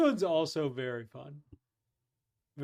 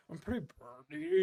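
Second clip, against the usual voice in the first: lightly voiced stoner, softer and mumbled; stoned guy; 4 dB quieter than usual. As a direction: mumble it like you're half asleep. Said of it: "He goes".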